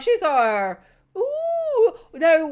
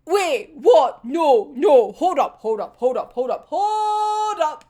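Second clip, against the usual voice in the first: disbelief; 4 dB louder, slower than usual. Retold or imitated. Retold own disbelief.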